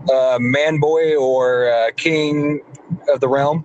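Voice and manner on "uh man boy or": drawn out. Real, not acted. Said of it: "what do people call you on X-Bone".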